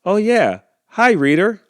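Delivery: high, bright hello to the reader; high cheerful greeting. Acted. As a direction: squeak out a happy hi.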